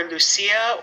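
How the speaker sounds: "Lucia" said loo-SEE-uh, slowly; pronunciation with s. Shown as a demonstration. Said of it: "because it could be".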